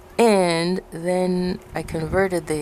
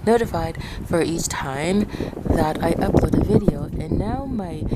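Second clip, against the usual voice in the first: numb mouth. Real, not acted. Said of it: "my mouth is numb".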